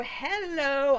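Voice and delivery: loud, drawn-out mock "hello"; sarcastic hello. Dragon reminds Jaime it is there, sarcastic hello. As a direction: stretch it like pointing out the obvious. Voices the overlooked dragon announcing itself.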